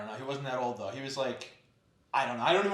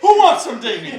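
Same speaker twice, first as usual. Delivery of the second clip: monster truck ad; 8 semitones higher, 15 dB louder than usual. Pretend. Hype-announcer bit.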